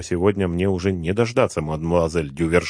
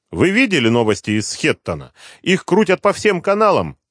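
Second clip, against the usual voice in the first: high, loud, falsely polite gloating; mocking villain; 9 semitones higher, 5 dB louder than usual. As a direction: sneer through mock courtesy. Villain Hashimov on the phone.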